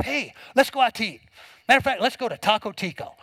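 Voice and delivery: mildly excited husband pitching a night out. Acted. Husband to wife after church, excited. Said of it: "you're excited".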